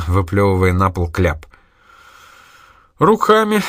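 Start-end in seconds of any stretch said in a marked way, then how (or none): 3.0-3.6 high, loud mocking reply; smirking. A narrator's reading. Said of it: "усмехнулся тот". (с усмешкой, громко и выше)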